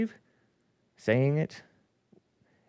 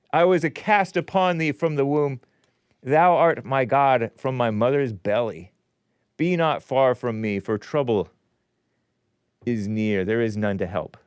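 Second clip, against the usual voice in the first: solemn scripture reading. Acted. Host reading Psalm twenty-two to listeners, declamatory.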